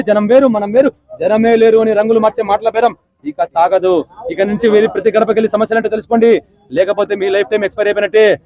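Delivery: lightly voiced Balakrishna warning politicians; a mild film-hero lecture; Balakrishna political dialogue. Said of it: "మన బాలకృష్ణ గారి కోసం రాజకీయం dialogue".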